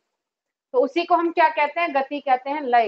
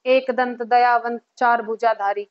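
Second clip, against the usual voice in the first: low, even recital of the verse; resume the aarti in steady metre; aarti recitation; 6 semitones lower than usual. Shown as a demonstration. Teacher resuming the aarti after a pause, low rhythmic recitation. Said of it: "फिर हम दोबारा बोलते हैं".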